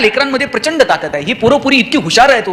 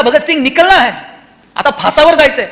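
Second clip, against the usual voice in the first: higher-pitched summons, mildly acted; jailer calling out; 4 semitones higher than usual. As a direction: call the prisoner out to go. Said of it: "त्यानं आवाज दिला".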